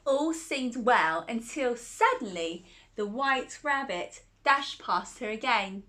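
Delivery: gentle storybook telling; reading to a child. Acted. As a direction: read it like a bedtime story.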